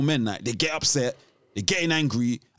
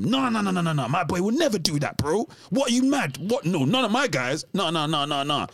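mock disbelieving denial; 3 semitones higher than usual. Imitating a trusting friend defending his boys, mock disbelief. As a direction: imitate someone loyally refusing to believe it. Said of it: "so much trust and loyalty".

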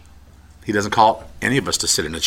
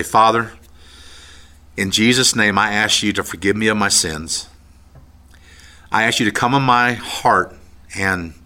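earnest prayer. Acted. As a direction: pray it line by line for them to repeat. Leads listeners in prayer.

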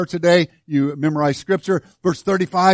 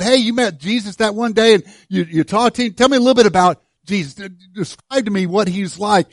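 raised, quick, eager asking; curious questioner asking the woman at the well; eager questioning; 5 semitones higher, 4 dB louder than usual. Acted. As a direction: press her to tell you about him. Acted questioner, raised and fast.

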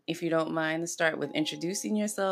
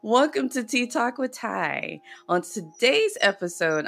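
bright host welcome; 6 semitones higher, 4 dB louder than usual. Shown as a demonstration. Host restarting the episode intro, upbeat announcer read. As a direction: Welcome lifted higher, a fresh energetic retake. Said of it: "Let me try that again".

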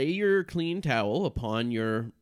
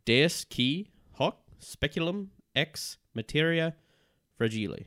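Latin incantation; 4 semitones higher than usual. Acted. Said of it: "Say the following out loud".

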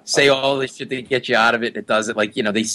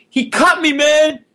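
much higher, strained yell of a man just cut; retold screaming; 13 semitones higher than usual. Wounded man at the bar screaming at the crowd, high shout. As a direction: yell it high like you've just been slashed. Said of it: "he starts screaming".

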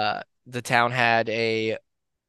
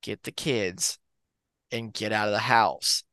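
low, even, controlled calm; a father keeping his voice steady over danger; quiet dad on the phone, calm and low; 3 semitones lower, 3 dB quieter than usual. Retold or imitated. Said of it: "in a very calm voice".

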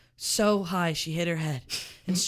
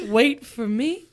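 laughing; 5 semitones higher, 9 dB louder, slower than usual. Real, not acted.

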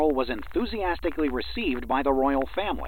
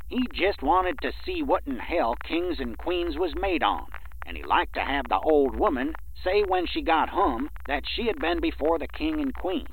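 mocking rustic speech; 2 semitones higher than usual. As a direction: poke light fun at an uneducated man's speech. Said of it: "Poking fun at Stratton's manner of speech".

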